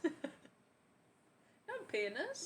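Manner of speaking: high, soft, very slow echo; laughing, high drawn-out repeat; echoed line. Retold or imitated. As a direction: stretch it out quietly with a big rise.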